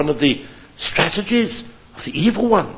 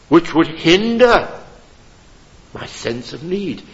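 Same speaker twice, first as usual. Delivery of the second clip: normal talking voice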